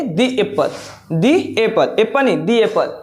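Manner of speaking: "दी" said like "thee" before "एप्पल"; the apple. Shown as a demonstration. Teacher drills "the" as "thee" before apple. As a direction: stress "दी" before the vowel. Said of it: "दी का use करेंगे".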